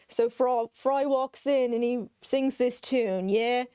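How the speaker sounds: a hint of a British documentary narrator; mock British accent. Imitating a British documentary guy from Futurama in a light British accent. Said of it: "a British guy's like".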